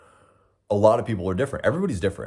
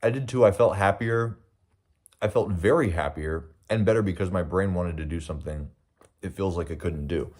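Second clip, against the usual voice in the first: talking while chewing; words round a bite of food; mouth full. Real, not acted. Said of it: "Sorry for eating with my mouth full".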